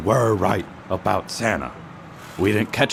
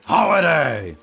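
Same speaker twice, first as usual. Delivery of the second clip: angry reprimand; 5 semitones higher than usual. Acted. Chief scolds disobeying detective.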